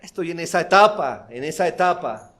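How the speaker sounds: a hint of a careless teen making excuses; lightly voiced rebellious youth. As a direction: shrug it off like a young rebel. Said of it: "No solo decir". (imitando levemente a un muchacho rebelde)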